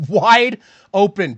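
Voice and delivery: gleeful wide-open shout; laughing call. Real, not acted. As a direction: laugh it out in disbelief. Excited call of a deep throw.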